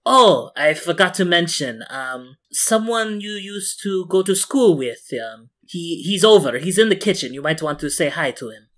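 calling down the stairs. Acted. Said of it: "Claudette bellows down from the stairs".

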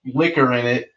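upbeat, lively retelling; hype man. Shown as a demonstration. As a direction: tell it like the party's on. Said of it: "let me be the hype man".

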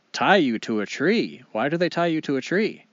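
disbelieving questions, rising at the end; incredulous. Acted. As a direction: echo it back in disbelief. Wolf astonished at being tied up.

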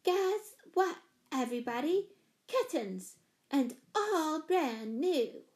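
put-on child's high, stretched-out announcement; storybook shout of glee, held back in volume; excited shouting. A narrator's reading. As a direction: call the big news out to everyone. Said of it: "shouting at the top of her lungs".

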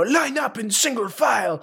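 put-on German accent, drill-style command. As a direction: imitate a teacher giving orders in a German accent. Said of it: "like, a German accent".

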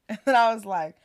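laughing through the words; can't hold back the laugh telling her friend. Real, not acted. Laughing as she tells her friend. Laughing while retelling texts.

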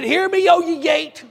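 loud, high, slow proclamation; commanding shout. Retold or imitated. Preacher commanding the prison gate to hear him, loud proclamation. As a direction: ring it out over the gate.

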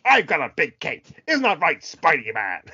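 mock actor's fake American; exaggerated American accent. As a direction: ham up stiff, over-pronounced American. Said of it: "does an American accent".

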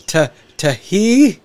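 mock halting syllables; sounding out words. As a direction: stammer through syllables mockingly. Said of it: "he's gotta sound out the words".

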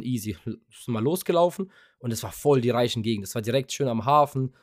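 normal talking voice

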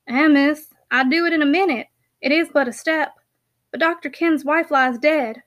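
rustic dialect, obliging but hesitant; a hint of a homely countryman; lightly voiced country packman. Packman hesitates over an errand for miss, lightly voiced rustic.

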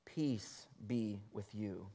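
soft, slow peace be with you; Jesus calming locked-in disciples, soft and slow; gentle Jesus. A narrator's reading. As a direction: soothe frightened disciples. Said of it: "Jesus came and stood among them and said to them".

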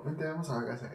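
quiet calm dad. Retold or imitated. Father calmly tells son to come home, soft. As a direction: gently settle him, soft. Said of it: "Ya bien tranquilo".

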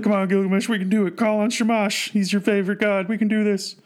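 high, urgent pep talk for a friend; play-acted cheering-on, pitched well up; rallying. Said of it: "rally Gilgamesh with his words".

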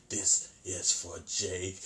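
"This is for Jake" drawn out slowly as a threat; slow menacing Chucky. Retold or imitated. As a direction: let the doll linger on every word. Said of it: "Chucky at this point just say".

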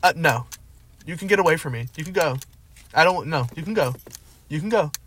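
firm brush-off. Retold or imitated. Woman firmly rejecting drunk man.

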